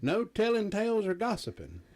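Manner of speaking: a light hillbilly twang, barely put on. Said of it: "in my best hillbilly voice".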